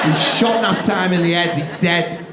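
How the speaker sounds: loud accusing yell; outraged shout. Retold or imitated. Toddler yelling at dad over lost nap time, outraged shout. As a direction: cry out like the parents killed something.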